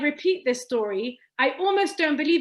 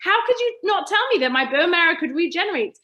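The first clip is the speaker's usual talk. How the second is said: rising, louder protest at the doctor; indignant, getting louder and higher; retold anger; 4 semitones higher, 3 dB louder than usual. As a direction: let the old frustration build as you retell it. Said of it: "And I was so angry with my doctor".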